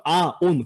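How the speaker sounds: 아, 온 with 온 opening on a bare O; two vowels in a row, 아 then 온; vowel-initial 온. Shown as a demonstration. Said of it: "모음으로 시작하는 음절이".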